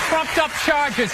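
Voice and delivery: drawn-out punchline; slow deliberate. Acted. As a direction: lean on each word slowly. Comic repeats his slow punchline.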